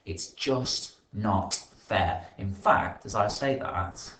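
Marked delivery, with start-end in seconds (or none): 0.1-2.3 spoiled sulk. Acted. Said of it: "grunted Red angrily".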